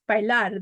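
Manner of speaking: "bailar" stressed on the final syllable; stress on LAR. Shown as a demonstration. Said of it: "the stress is on the A R".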